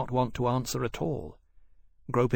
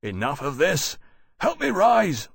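sharp, raised command; 5 semitones higher, 4 dB louder than usual. A narrator's reading. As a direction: cut it off sharply. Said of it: "Lawrence said sharply".

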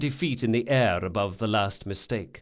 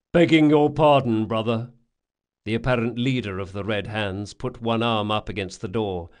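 gang thug voice; 5 dB louder than usual. Acted. Red Hands leader at door.

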